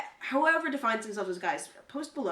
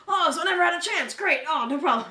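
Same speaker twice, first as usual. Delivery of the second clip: cheerful; 7 semitones higher, 9 dB louder than usual. Retold or imitated. Retelling rejected character's cheerful reply.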